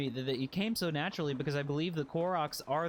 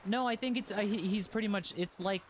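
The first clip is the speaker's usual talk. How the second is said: much higher, a light Toad voice for the Korok; 7 semitones higher than usual. Acted. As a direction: squeak it like Toad from Mario. Voicing the Korok.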